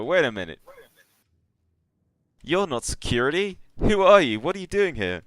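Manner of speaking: high, loud, alarmed questioning; startled challenge. Acted. Startled engineers confront unexpected intruders, high and alarmed. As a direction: challenge the intruders, pitch climbing sharply. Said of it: "surprised look of".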